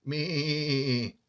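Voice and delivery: badly faked goat bleat; a quick mock bleat like a goat. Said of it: "that was a very bad imitation of a goat".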